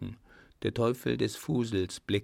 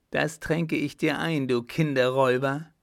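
raised, loud angry vow; grim threat; 4 semitones higher, 6 dB louder than usual. A narrator's reading. Rope dancer vows payback to the clown, enraged. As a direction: hurl the accusation as a threat. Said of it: "drohte sie ergrimmt".

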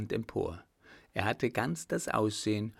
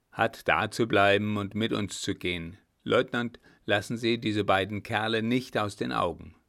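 firm, louder military orders; brusque commander to his men; commanding old general; 5 dB louder than usual. Acted. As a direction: issue orders that allow no argument.

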